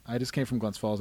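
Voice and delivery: light upstate New York Glens Falls accent on Second; a hint of a Glens Falls accent. Real, not acted. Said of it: "you just had witnessed my Glens Falls accent".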